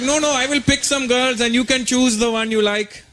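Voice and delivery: a hint of a comic mom voice; imitated mom. Mom offering to pick girls for her son, lightly imitated mom. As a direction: lightly put on your mom's voice. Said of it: "She's like".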